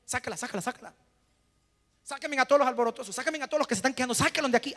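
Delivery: commanding order. Retold or imitated. Preacher voicing Jesus clearing out the mourners, commanding. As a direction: order everyone out with urgency. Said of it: "qué dijo".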